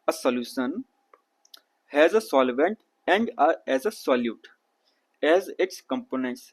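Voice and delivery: slow, careful textbook read-aloud. Shown as a demonstration. Teacher reads the textbook to his students, slow read-aloud. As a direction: spell out each word slowly for the class.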